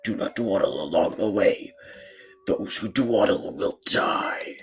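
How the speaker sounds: slow, drawn-out dire warning; ominous warning. Acted. Mother warns Red about the path, ominous and slow. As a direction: intone it like a doom-laden mother.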